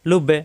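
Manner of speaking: লুববে with the b released in a little bounce; bouncing echo. Shown as a demonstration. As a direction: push off the b in লুববে. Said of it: "ধাক্কা হলো". (লুববে, ধাক্কা দিয়ে)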